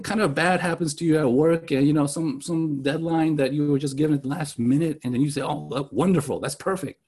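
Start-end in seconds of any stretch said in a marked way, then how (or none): 5.4-7.0 fading, dry sarcastic delight; mock wonderful, trailing off. Shown as a demonstration. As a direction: fake cheer over bad news. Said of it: "That's sarcasm".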